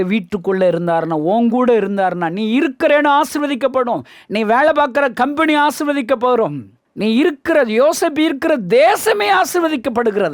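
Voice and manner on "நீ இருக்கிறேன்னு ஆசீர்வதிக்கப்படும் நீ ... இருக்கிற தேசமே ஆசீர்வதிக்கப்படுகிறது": higher-pitched, emphatic preacher delivery; building sermon proclamation; raised preaching. Real, not acted. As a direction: proclaim the blessing to the congregation, pitch lifted.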